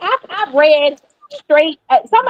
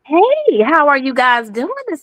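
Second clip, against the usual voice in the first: Southern country accent. Real, not acted. Caller greets the hosts, Southern country accent. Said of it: "you sound like a old country girl".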